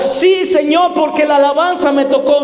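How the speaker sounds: grito agudo y fervoroso; Pedro exclamando. Acted. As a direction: exclama con ansia, más agudo. Pedro insiste en seguir. (Pedro insiste gritando con fervor)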